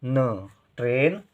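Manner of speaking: न and ट्रेन said very slowly; slow teacher dictation; slow spelling out. Shown as a demonstration. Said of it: "एक ही मात्रा, ट्रे".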